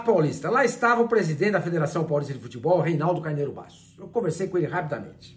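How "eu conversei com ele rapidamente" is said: normal talking voice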